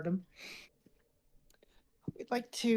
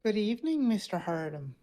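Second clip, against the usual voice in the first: menacing greeting; 3 semitones higher, 5 dB louder than usual. Acted. Menacing intruder greets Hardam.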